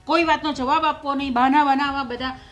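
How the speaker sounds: heated, indignant venting; angry. Acted. Mother-in-law venting about her son's temper, mildly angry. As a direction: refuse to be calmed. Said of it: "ગુસ્સો કરશો ને".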